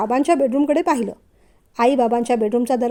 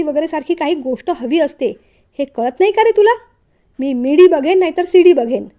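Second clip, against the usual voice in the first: exasperated. Acted. Elder brother snapping at his teasing younger brother, exasperated. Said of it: "Shirish वैतागला".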